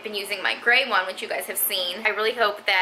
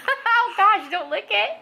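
surprised; 10 semitones higher, slower than usual. Real, not acted. Mom reacting to toddler licking.

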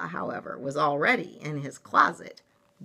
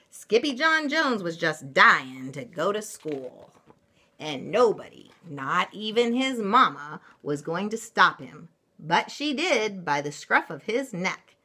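lively picture-book reading, punched key words; story narration; 3 semitones higher, 5 dB louder than usual. A narrator's reading. Mother reading a picture book to children, animated narration. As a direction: read it brightly to young listeners, louder.

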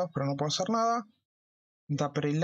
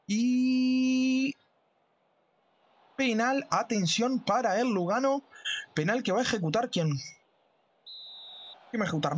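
excited commentary; 8 semitones higher than usual. Acted. Penalty call in commentary.

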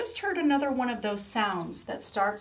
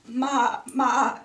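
loud, higher maa-maa; goat's bleat; 5 semitones higher, 9 dB louder than usual. A narrator's reading. Storyteller voices a goat for children, loud bleat. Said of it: "said the goat".

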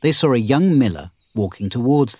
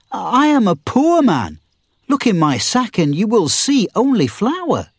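high, pleading mock-frightened plea; pretend fear; 10 semitones higher than usual. Miller pleading innocence to outlaws, high mock fear. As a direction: put on a helpless poor man's fear. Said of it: "pretended to be afraid".

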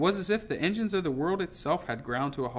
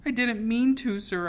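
high, louder desperate plea; pleading; 9 semitones higher, 6 dB louder than usual. A narrator's reading. Tearful girl begging the captain to believe her, pleading. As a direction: plead urgently, pitched well up. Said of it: "I pleaded".

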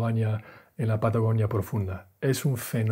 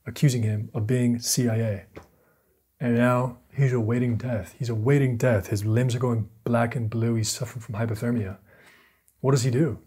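dramatic story narration. Acted. Vlogger telling Chouinard's climb, dramatic narration. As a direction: tell it like a mountain survival film trailer.

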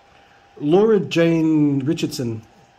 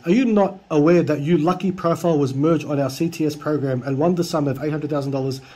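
reading broken English. Retold or imitated. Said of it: "I need to read out this guy's English".

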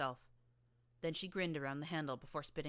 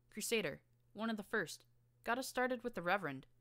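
higher, bouncy and eager; gleeful; 6 semitones higher, 4 dB louder than usual. Acted. Boing gushing to Blackjack about Our Lost, gleeful and higher. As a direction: bubble over with glee. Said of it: "bounced on her hooves in glee".

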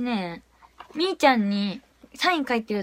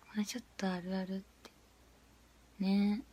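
fast unvoiced whisper; 4 semitones lower, 12 dB quieter than usual. Real, not acted. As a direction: hurry it out under your breath. Whispered aside.

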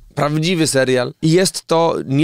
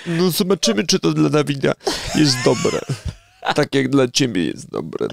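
skeptical role voice. Acted. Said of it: "od tej roli, którą teraz przyjąłeś".

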